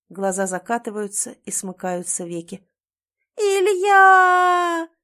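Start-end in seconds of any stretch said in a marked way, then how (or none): 3.4-4.9 long, loud, high scream; wife screaming his name to wake her husband; screaming with all her strength. A narrator's reading. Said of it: "кричу изо всех сил".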